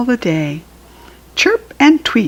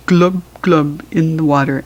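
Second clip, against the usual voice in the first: fish glub. Shown as a demonstration. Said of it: "The fish is in the water".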